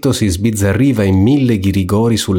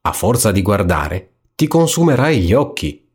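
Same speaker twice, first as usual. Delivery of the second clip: little black devil. Acted. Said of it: "disse il diavolo nero".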